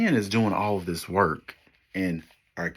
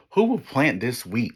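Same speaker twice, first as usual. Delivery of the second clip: hen's cry; 5 semitones higher, 5 dB louder than usual. Acted. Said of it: "Remember, I'm the hen".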